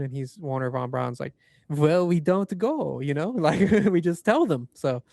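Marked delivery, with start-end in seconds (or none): 1.7-4.7 put-on German accent. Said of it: "in his German accent".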